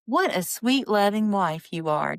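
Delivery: mock praise that talks down; condescending. Husband condescends to his wife with mock sweetness. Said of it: "Just real condescending".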